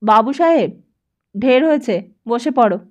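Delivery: lightly voiced teacher calling out across the class; half-hearted shout, relenting. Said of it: "চিৎকার করে বললেন".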